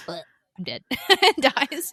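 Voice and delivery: mock dying croak then laugh; a hammed-up death gasp; dying noise. Dying father to daughter, mock death croak. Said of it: "that's the noise he makes".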